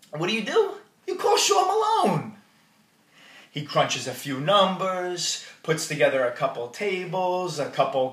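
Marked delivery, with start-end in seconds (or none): 0.1-2.4 excited. Real, not acted. Punchline to the crowd.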